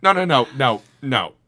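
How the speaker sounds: loud squeaky string of protests, gradually coming down; high-pitched confused voice. Retold or imitated. Worker refusing the customer who hit him, high confused voice falling away. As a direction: start in a very high shout, sink toward normal pitch. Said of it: "my high-pitched, like, I'm confused voice".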